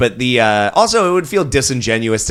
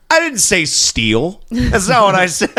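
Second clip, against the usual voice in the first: grandfather impression voice; 6 semitones higher than usual. Grandfather denying he meant stealing, higher mock-protesting voice. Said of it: "his dad was like".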